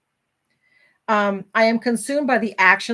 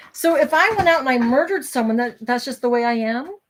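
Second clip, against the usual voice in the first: higher pitch, rising into a question; disbelieving rhetorical question, pitched up; incredulous challenge; 4 semitones higher than usual. Real, not acted. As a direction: throw the absurd excuse back as a question. Mocks the excuse with absurd example.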